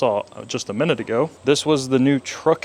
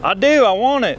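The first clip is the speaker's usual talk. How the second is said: excited; 10 semitones higher, 6 dB louder than usual. Pretend. Excited reply in bit.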